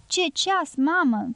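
high, delighted gasp of admiration; admiring exclamation. Acted. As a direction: marvel at the watch like a gypsy with a new toy. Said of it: "exclamă Rafael plin de admirație".

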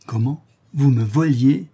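a master shocked and cross at his maid; mildly indignant, rising disbelief; astonished anger. Acted. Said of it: "plein d'étonnement et de colère".

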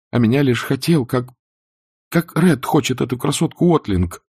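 high, heated Scarlett rushing her blame; Scarlett, agitated reproach. A narrator's reading. Scarlett bitterly reproaching Ashley, high and heated.

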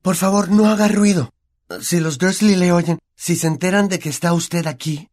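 put-on high, urgent boy's pleading; desperate plea. A narrator's reading. Boy fears the elf will be overheard, desperate. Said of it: "susurró Harry desesperado".

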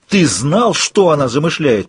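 a hint of a furious roar. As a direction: bellow the accusation. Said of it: "проревел Йен".

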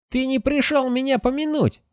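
high, hissed ghoul accusation; hissing ghoul. Acted. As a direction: hiss it like a ghoul. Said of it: "шипит Гуль".

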